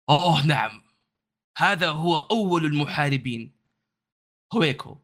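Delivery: proud guide in formal Arabic; lightly voiced proud warrior host; formal standard arabic. GM voices warrior NPC in fusha.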